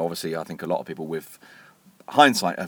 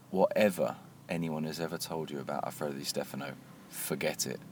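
hushed, lower confiding tone; conspiratorial; 4 semitones lower, 11 dB quieter than usual. Retold or imitated. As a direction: retell it softly, as if sharing a secret. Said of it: "in a kind of conspiratorial tone".

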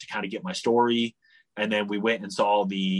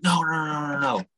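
retold yelling; 6 semitones higher than usual. Guards telling him to get out of the street, mock yelling. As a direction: imitate guards shooing someone off, rapid-fire noes. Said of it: "yelling at me".

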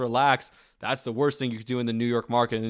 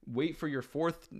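put-on much softer explaining to a young player; quiet coaching; 3 semitones higher, 7 dB quieter than usual. Rodgers teaching Zach Wilson in the pocket, quiet coaching. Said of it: "he's like".

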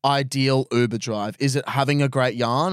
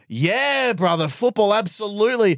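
excited driver voice; 7 semitones higher than usual. Retold or imitated. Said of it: "And they go".

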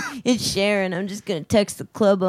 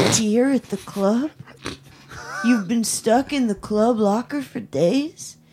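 higher, worried, soothing; concerned phone voice; 3 semitones higher than usual. Pretend. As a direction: fuss over her like a worried boyfriend. Concerned fake phone call.

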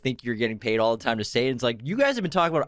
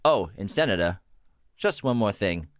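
low, menacing movie villain; sinister purr on love the suit; Hannibal Lecter impression; 4 semitones lower than usual. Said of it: "That was good Lecter. impression".

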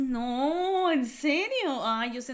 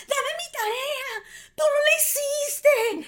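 high, slow, tearful pleading to get the homework back; a high wail of "give it back"; crying plea; 6 dB louder, much slower than usual. Retold or imitated. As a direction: sob it out like a bullied kid. Kids grabbing her homework notebook.

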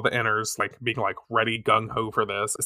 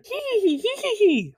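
a high, cackling villain giggle, hee hee; faster than usual. Retold or imitated. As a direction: giggle like a sneaky villain hiding in the trees. Villain's giggle heard in trees.

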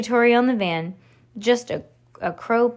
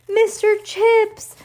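high, loud, stretched-out greeting; joyful exclamation; 12 semitones higher, 6 dB louder, slower than usual. A narrator's reading. Friends greet their found puppy, joyful exclamation. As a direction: cry out the puppy's name in delight.

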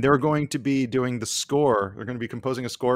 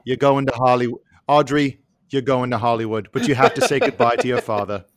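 dramatic talent show judge. Acted. Mock Simon Cowell judging.

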